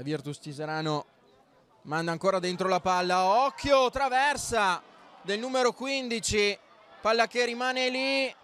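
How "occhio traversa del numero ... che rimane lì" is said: excited commentary. Real, not acted. Chance off the crossbar.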